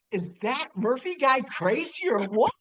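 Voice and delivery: mildly hammed-up disbelief; wide-eyed freshmen. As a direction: imitate stunned freshmen, pitch climbing. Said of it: "these freshman eyes, they're this big going".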